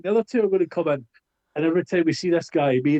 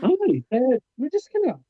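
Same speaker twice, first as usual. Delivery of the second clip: put-on Australian accent; 10 semitones higher, slower than usual. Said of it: "you do sound like you come from down under".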